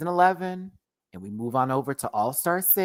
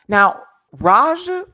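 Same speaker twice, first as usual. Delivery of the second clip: loud drawn-out call; 8 semitones higher, 10 dB louder, slower than usual. Real, not acted. Calling out a queen by name.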